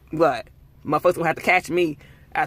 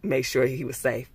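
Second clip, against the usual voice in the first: mock soothing; 4 semitones lower, 6 dB quieter than usual. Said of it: "they was like".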